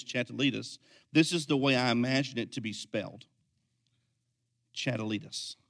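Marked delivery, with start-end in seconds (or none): 0.0-0.8 put-on five-year-old voice. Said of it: "in a five-year-old voice".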